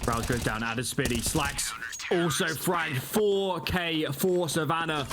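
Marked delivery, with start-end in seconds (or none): 1.2-5.0 slow, high, stretched call of the four kill; drawn-out hype call. Real, not acted. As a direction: savour each word of the call. Caster calls four kill.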